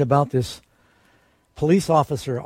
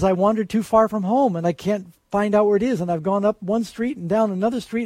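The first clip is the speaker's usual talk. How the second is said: put-on a child begging the officer for help, higher pitched; lost little boy; 5 semitones higher than usual.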